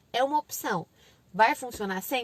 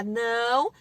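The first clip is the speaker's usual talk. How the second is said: louder, stretched no; mock parental yell; shouted no; 5 dB louder than usual. Shown as a demonstration. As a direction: bark a warning no. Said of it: "em vez de gritar".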